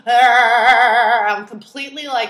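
ordinary delivery

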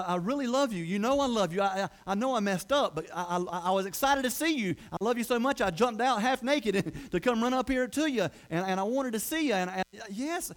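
eager, stammering protest of love; flustered pleading. Acted. Flustered Peter pleading his love.

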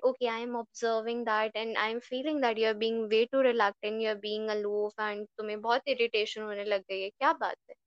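gentle, caring and patient; lovingly. Shown as a demonstration. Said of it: "बहुत प्यार से".

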